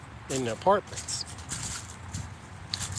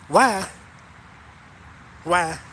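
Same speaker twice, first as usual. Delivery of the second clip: incredulous why; 3 semitones higher, 4 dB louder than usual. Real, not acted.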